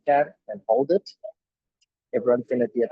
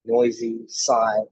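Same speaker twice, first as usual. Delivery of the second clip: drawn out; much slower than usual. Shown as a demonstration. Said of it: "I'm gonna deep".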